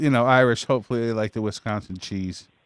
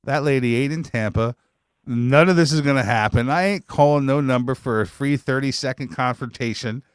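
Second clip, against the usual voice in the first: scornful scoffing; 4 semitones higher than usual. Retold or imitated. To the sexy phone ads, a scoffing retort. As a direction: scoff at the ad like it's a con. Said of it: "and I'm like".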